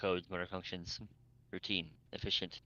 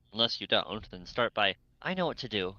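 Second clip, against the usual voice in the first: snapping; 6 dB louder than usual. Acted. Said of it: "Nero snapped back".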